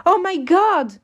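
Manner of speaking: high, loud sudden alarm; surprised gasp. Acted. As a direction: blurt it out in shock. You realise reservation is soon.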